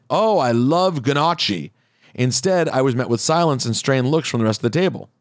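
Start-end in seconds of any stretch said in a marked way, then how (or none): 0.1-1.7 slow, joking exclamation; drawn-out joke gushing, "gnocchi" as guh-notch-ee; mock exclamation. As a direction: exclaim it slowly for an easy laugh. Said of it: "by exclaiming".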